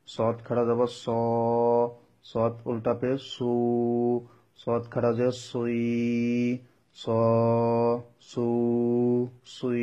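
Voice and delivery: heavy, distinct S in স, সু, সুই; clearly thick sad. Shown as a demonstration. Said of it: "স্পষ্ট বোঝা যেতে হবে".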